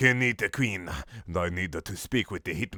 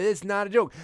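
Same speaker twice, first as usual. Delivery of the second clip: angry; 12 semitones higher than usual. Acted. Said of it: "angrily said".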